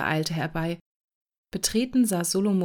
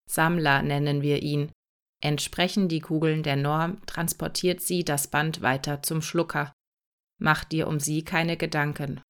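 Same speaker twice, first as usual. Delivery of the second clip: lightly lowered, steady robot voice; a hint of a calm, patient robot explaining; a slightly deeper mechanical helper, matter-of-fact; robot Cäsar; 3 semitones lower than usual.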